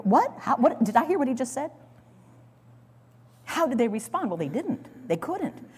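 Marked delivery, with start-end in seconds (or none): 0.0-1.7 high, halting what-did-I-hear; stunned disbelief. Pretend. Brother on the ground looking up at Joseph, stunned. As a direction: gasp it out in shock.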